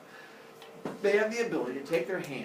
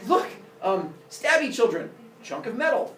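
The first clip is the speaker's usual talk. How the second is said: raised, louder luring voice; Father Sky; 8 semitones higher, 5 dB louder than usual. Acted. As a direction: bait the children with a treat. Father lures children into hole.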